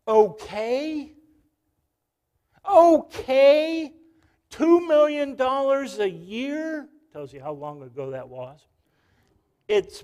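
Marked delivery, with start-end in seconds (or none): 0.1-6.9 loud, higher mock tirade of a coach; wild outburst. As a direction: rant in disbelief like Lasorda. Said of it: "He went wild".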